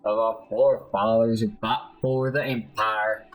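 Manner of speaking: lightly acted guilt-ridden confession; a touch of dramatic shame; self-reproaching soldier. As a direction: condemn yourself as a disgraced patriot. The speaker condemns himself in game.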